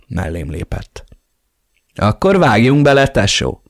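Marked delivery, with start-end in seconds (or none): 1.9-3.6 bright, higher and louder call to action; cheerful grin. Acted. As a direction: slap him on the back with a grin. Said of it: "csapott a hátamra széles mosollyal". (vidáman, mosolyogva)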